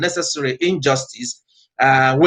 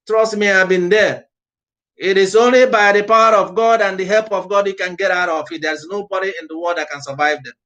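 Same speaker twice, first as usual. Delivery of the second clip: raised, ringing sermon voice pushing every phrase; fiery preaching; 3 semitones higher than usual. Acted. Pastor urging his listeners to purge the country, preaching at full force. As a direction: preach it out to the congregation.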